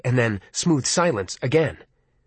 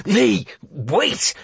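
calling out; 7 semitones higher than usual. Acted. Calling after hung-up Lee.

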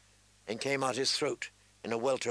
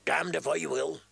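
bellowed; 4 semitones higher than usual. Acted. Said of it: "bellowed Mikken".

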